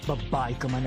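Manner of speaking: ordinary talk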